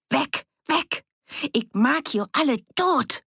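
high, sobbing cry; frantic, high-pitched outburst; hysterical threat. A narrator's reading. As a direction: shriek threats in desperation. Armed woman reloads and threatens all.

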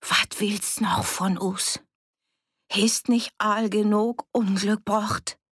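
slow, strained, breaking voice; half-whispered opening rising to a pained cry; anguished accusation. A narrator's reading. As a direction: accuse her on the edge of tears. Tearful armed woman accuses her friend.

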